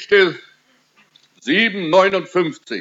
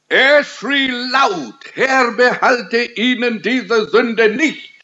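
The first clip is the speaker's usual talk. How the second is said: raised-pitch preaching imitation of a cry; retold cry; 7 semitones higher, slower than usual. Preacher retells Stephen's last cry to God, a mild mock cry. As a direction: quote a dying plea, higher but not shouted. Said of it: "Es war ein Schrei".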